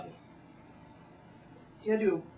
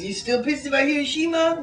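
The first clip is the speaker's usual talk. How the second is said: higher retold heckle; a quoted jab, higher; imitated voice; 8 semitones higher than usual. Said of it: "he goes".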